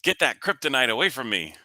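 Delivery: high-pitched goofy superhero voice; Batman impression. Shown as a demonstration. Dad repeats his Batman impression on request, goofy high voice. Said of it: "it's my Batman impression".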